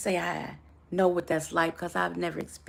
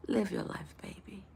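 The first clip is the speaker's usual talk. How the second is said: hushed, gentle and tender; the gentle side after the scream; soft and gentle; 2 semitones higher, 4 dB quieter than usual. Shown as a demonstration. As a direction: say it softly like a lullaby. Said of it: "let me say it nice and gentle".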